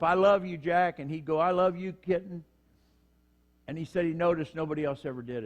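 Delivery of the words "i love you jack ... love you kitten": calling out. Retold or imitated. Prison couple calling across tiers.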